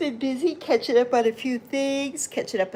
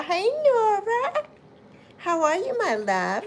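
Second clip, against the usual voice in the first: excited greeting; 9 semitones higher than usual. Real, not acted. Greeting a viewer arriving in chat.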